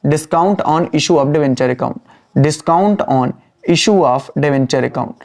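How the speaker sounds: very slow, word by word dictation; dictating at writing speed. Shown as a demonstration. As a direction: spell it out slowly so they can write. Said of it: "dictating slowly to write down".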